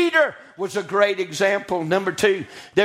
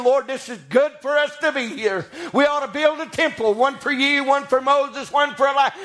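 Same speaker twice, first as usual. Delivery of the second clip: higher-pitched preacher's retelling; preaching; 6 semitones higher than usual. Acted. Peter speaks to Jesus about building temples, preaching. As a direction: preach Peter's eager proposal in a raised voice.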